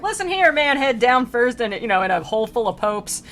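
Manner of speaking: playful righteous scolding; mock scolding. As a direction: wag a finger and tell him off. Dante scolding the pope.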